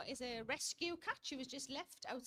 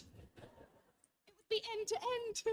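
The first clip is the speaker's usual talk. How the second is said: drawn-out punchline; 8 semitones higher, much slower than usual. Real, not acted. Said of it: "punchline drawn out".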